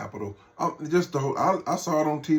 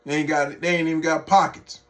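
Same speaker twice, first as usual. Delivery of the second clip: incredulous outburst; 5 semitones higher, 8 dB louder than usual. Real, not acted. Ridiculing tariffs on penguins.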